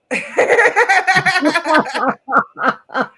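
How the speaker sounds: big real burst of laughter; a loud laugh that breaks the talk. Real, not acted. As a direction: laugh out loud, high and hard.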